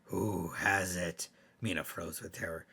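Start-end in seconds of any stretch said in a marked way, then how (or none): 0.0-1.3 slow eerie question; the ghost lingers on each word, slowly; ghostly voice. Acted. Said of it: "it asked".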